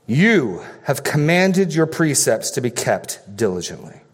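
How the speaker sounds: "You" hit first and firm, rest read evenly; stress on YOU. Shown as a demonstration. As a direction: lean on "You" at the start of the verse. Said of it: "It emphatically is put in the first position".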